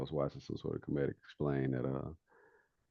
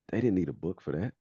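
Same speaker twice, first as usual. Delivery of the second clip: raised, louder comic disbelief; mock incredulous; 4 semitones higher, 5 dB louder than usual. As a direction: imitate a comedian making a pointed observation. Retelling a comedian's punchline.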